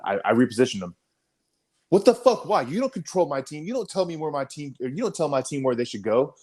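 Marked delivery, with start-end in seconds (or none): 1.9-6.3 high, heated mock rant; retold angry outburst. Lieutenant snaps at him for moving his team, high indignant mock rant. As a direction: replay the officer's indignant blast.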